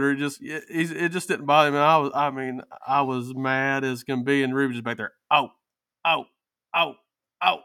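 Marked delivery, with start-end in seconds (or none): 5.3-7.6 mock dog howling. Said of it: "every breath".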